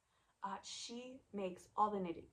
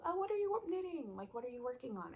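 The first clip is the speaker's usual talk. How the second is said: lightly imitated friend, higher pitch; a hint of a curious friend, pitched up; 5 semitones higher, faster than usual. Retelling a friend asking about her knitting, curious and higher.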